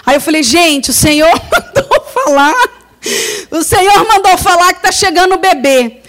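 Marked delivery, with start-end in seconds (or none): 0.4-2.7 laughing through the words; laughing while telling. Retold or imitated. Laughing as she tells the girls the news. 3.5-6.0 laughing and tearful. Retold or imitated. Laughing and tearful as she tells the girls. Laughing and crying while retelling.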